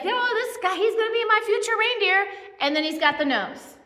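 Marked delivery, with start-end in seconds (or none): 0.0-2.3 lightly voiced proud Santa, pitched higher; a hint of a delighted Santa showing off; mock jolly Santa, higher; Santa pleased. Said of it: "Santa's like".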